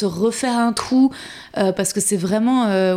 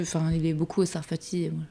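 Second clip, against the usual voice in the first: whispering; 4 semitones lower, 5 dB quieter than usual. Real, not acted. Joking aside about not being invited.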